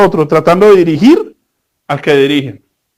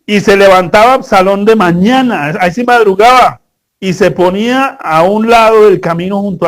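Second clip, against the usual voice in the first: louder, measured Bible reading; scripture reading; 4 dB louder than usual. Acted. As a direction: read the verses out with weight. Reads the Bible passage aloud.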